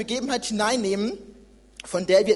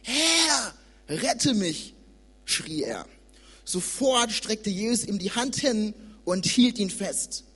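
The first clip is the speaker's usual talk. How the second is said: scripture reading; 2 semitones lower than usual. Acted. Young preacher reads Matthew to church, measured reading. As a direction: read the sea story to the congregation.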